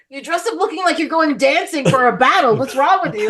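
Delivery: lightly voiced disapproving father; scolding dad. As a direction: imitate a dad telling off his daughters. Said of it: "but he was still a dad".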